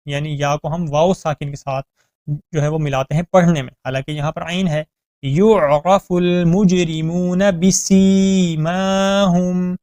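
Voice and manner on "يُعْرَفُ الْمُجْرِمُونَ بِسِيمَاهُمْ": يُعْرَفُ with a throaty ain, recited slowly; clear ain. Shown as a demonstration. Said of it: "عین کی sound کا آپ نے خاص خیال رکھنا ہے".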